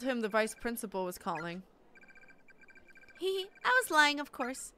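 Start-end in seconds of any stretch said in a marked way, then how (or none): 3.2-4.7 put-on high, louder girlish tee-hee; high-pitched villainous schoolgirl; evil villain giggle. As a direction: confess the lie with a mischievous giggle. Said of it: "That's an evil villain laugh".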